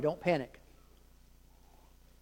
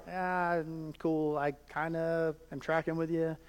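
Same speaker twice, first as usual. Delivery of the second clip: softer, lower, vaguely nodding along; unsure listener; 3 semitones lower, 9 dB quieter than usual. Retold or imitated. Modern listener pretending to follow Jesus, vague mumble. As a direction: fake understanding you don't have. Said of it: "we're like".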